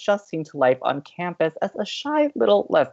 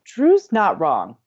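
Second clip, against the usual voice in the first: ordinary talk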